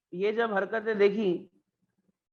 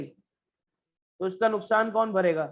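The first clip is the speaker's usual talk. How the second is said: slow pointed question; much slower than usual. Shown as a demonstration. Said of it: "teacher slows the key question".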